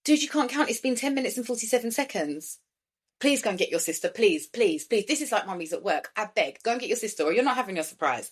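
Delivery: plead, then bargain with him. Real, not acted. Mum telling her son off mid-podcast, exasperated.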